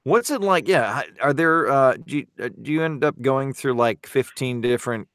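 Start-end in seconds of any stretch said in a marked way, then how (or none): none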